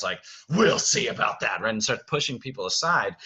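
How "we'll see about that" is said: louder, mildly threatening; a touch of menace; Beast starting to rage. Acted. Director quotes Beast's cue to the cast, mildly threatening. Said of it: "when he starts".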